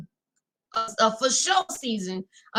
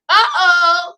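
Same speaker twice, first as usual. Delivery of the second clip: big higher uh-oh, caught off guard; loud surprised uh-oh; 7 semitones higher, 11 dB louder than usual. Real, not acted. Host noticing a guest has joined, loud surprised uh-oh. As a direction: sing out a loud uh-oh. A guest joins the live stream.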